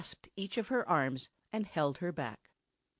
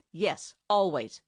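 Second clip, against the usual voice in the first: snapping. Acted. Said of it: "he snapped out".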